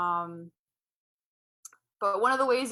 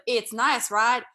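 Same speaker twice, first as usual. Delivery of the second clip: put-on higher, louder, slow Romanian-accented cheer; dad celebrating a good moment, accented; dad's accent; 8 semitones higher, 8 dB louder, slower than usual. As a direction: gush like a proud Eastern European dad. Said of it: "he'd be like".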